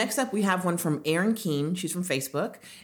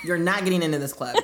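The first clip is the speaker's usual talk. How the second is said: stern doorman voice; bouncer; 3 dB louder than usual. Retold or imitated. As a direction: turn them away at the door. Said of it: "Megan, you sound like a bouncer".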